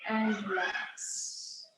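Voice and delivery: slow, soft relaxing guidance; calm grounding exercise. Acted. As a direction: let the body settle, slowly. Closing relaxation after breathing.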